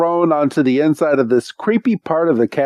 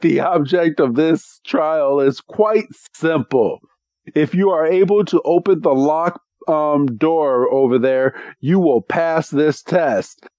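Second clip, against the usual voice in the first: Wickstrom explaining; 3 semitones higher than usual. Retold or imitated. Trial master explains rules, acted.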